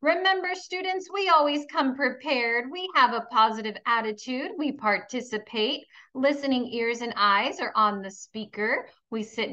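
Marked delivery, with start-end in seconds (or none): 0.0-5.9 bright, higher teacher voice listing the rules; classroom rules recital. Acted. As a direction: sing out the rules to young pupils.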